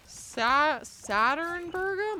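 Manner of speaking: surprised. Real, not acted. Surprised by a name.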